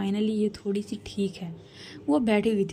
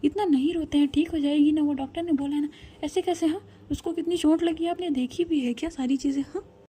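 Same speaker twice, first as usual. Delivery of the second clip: worked up; 5 semitones higher than usual. Acted. Sister soothing then arguing.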